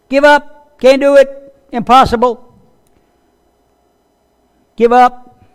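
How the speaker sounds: high, loud mock jeers; taunting naysayers. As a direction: jeer it like a doubter.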